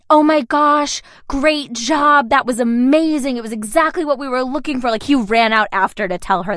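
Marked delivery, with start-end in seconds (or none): 0.1-4.9 mock-delighted praise; gushing praise. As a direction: gush over a great audition, easing off. Casting director gushing over another actor.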